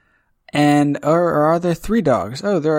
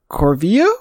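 rising question tune at the end; uptalk. Real, not acted. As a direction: say the name unsure, pitch lifting. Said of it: "I had such an upward inflection at the end".

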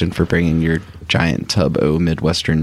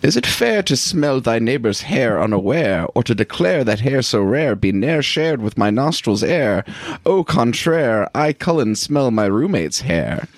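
higher, flowery poetic recital; 3 semitones higher than usual. Acted. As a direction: recite it like a grand, flowery poem. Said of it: "practice my poetic voice".

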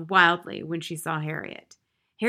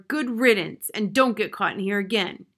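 stern scolding; 4 dB louder than usual. Acted. Maid scolding the child.

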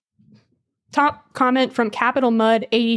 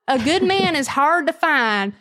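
higher folksy Southern twang; Southern accent; 4 semitones higher than usual. Acted. Host riffing in Southern skit, put-on twang. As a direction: pronounce it in mock Southern.

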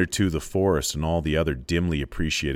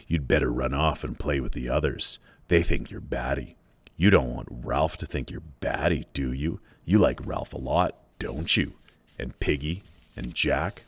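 a low, lightly voiced menacing taunt; sinister pig's head; 3 semitones lower than usual. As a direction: coax him like a sly tempter, lightly. Lord of the Flies taunts Simon.

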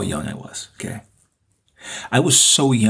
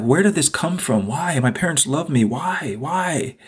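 mildly anguished questions, pitched higher; imitating a distressed, higher-pitched plea; retold tearful pleading; 5 semitones higher, slower than usual. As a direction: plead "why" as if recalling tears. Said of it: "And I was crying".

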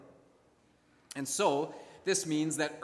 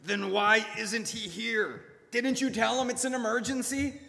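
through gritted teeth; 7 semitones higher than usual. Acted. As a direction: force it through clenched teeth. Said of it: "nearly growled through gritted teeth".

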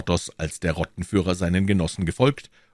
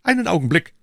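high, loud interjection; calling out; 10 semitones higher, 5 dB louder, faster than usual. A narrator's reading. D'Artagnan stopping his friends with drawn swords, calling out. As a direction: call a sudden halt. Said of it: "rief D'Artagnan".

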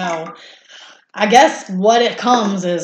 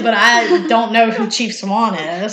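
laughing; slower than usual. Real, not acted. Laughing at Twilight reference.

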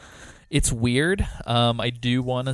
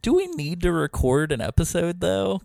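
retold question; 7 semitones higher than usual. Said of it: "I was like".

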